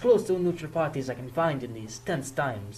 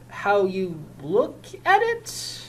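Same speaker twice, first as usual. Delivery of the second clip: slow echo rising on "at" in disbelief; incredulous echo; 5 semitones higher, much slower than usual. Acted. Officer repeating union man's words, slow and incredulous. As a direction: repeat "How you look at it?" slowly, rising at the end.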